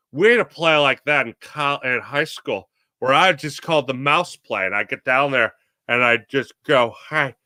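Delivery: lightly voiced deadpan TV host; a hint of dry sportscaster deadpan; barely shifted Kilborn imitation; Craig Kilborn impression. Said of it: "This is my dead-on Craig Kilborn impression".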